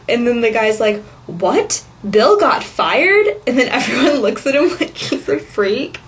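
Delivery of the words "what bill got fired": mishearing surprise. Retold or imitated. Man mishears the conference call.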